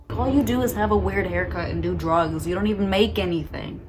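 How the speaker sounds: mildly heated rant; getting mad. Real, not acted. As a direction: vent at the haircut people. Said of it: "why I'm getting so mad".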